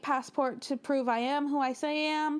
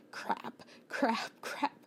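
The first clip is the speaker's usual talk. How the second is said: muttered panic; 3 semitones lower, 5 dB quieter, much slower than usual. Retold or imitated. Lost at the map.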